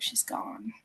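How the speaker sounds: barely voiced, hushed; hushed retelling. Brother calls with news of her death, hushed. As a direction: let the words fall almost to breath.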